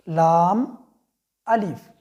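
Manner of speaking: लाम then अलिफ as two letters with a break; name लाम, pause, then अलिफ; separate letters. Shown as a demonstration. Teacher showing students the right way, letter by letter. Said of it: "one by one करके पढ़ना है".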